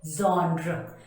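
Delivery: genre as ZHON-ruh; correct pronunciation. Shown as a demonstration. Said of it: "Z H O N R U H".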